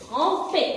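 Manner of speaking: "Tromper" corrected to a closed é ending; closed final é. Shown as a demonstration. Teacher correcting the vowel, "Tromper" ending in closed é. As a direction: finish "Tromper" on é, the vowel held tight.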